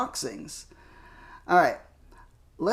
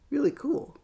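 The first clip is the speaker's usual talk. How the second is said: whispering; 9 semitones higher, 4 dB quieter than usual. Real, not acted. Admiring figure, hushed aside.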